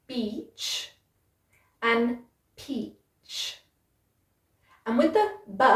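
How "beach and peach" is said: soft B, then aspirated P; beach and peach. Shown as a demonstration. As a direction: contrast the B and the P.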